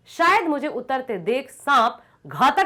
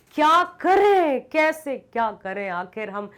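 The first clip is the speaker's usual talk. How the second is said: anguished cry. Acted. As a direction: cry out the question in despair. Narrator's agonised dilemma.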